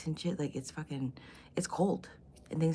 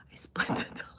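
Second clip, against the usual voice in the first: words broken up by laughter; real laughing. Real, not acted. Cracking up at her own crude joke, laughing. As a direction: crack up halfway through the sentence.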